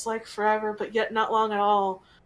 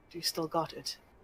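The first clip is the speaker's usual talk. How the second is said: close, hushed, whispered in-character voice; 5 semitones lower, 9 dB quieter than usual. Voicing a character who asks a player something, whispering in their ear. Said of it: "he whispers in your ear".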